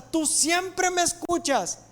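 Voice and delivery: high, drawn-out declaration to God; praying out loud. Acted. Jesus thanks God before the crowd, proclaimed aloud. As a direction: proclaim it in a lifted voice, easing off. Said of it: "Jesús lo dice en voz alta".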